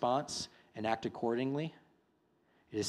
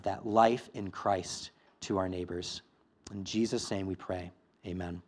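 steady, earnest prayer voice; a pastor praying over his church, earnest; closing prayer; 2 semitones lower than usual. Acted. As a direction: pray for the congregation.

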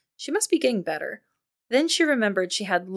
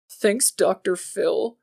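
bitter laugh; much slower than usual. Acted. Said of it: "Jordan said with a bitter laugh".

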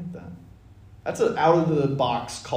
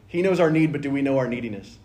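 preachy emphasis; 4 dB louder than usual. Shown as a demonstration. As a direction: punch the line like a sermon hook. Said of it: "That'll preach".

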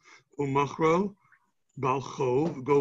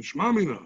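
"Shma mina" lifted higher as a question; 4 semitones higher, 4 dB louder than usual. Shown as a demonstration. Teacher rereading the line after Rashi's note, questioning. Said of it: "It's a question".

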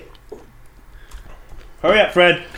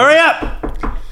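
strained squeak; much slower than usual. Real, not acted. Urging in a strained voice.

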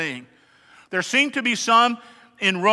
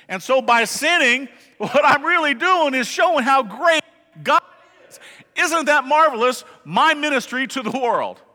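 higher, mock-gleeful self-justifying believer; smug antinomian voice; 4 semitones higher than usual. Preacher mimicking a smug sinner, mock-gleeful. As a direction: ham up the sinner who thinks sin glorifies God. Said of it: "he says".

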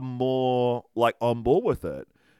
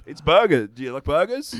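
put-on Russian accent; 5 semitones higher, 7 dB louder than usual. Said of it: "That was my Russian accent".

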